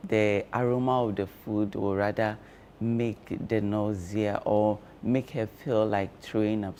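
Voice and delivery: talking with cloves in mouth; mouth full. Real, not acted. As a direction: speak around something in your mouth. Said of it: "I have cloves in my mouth".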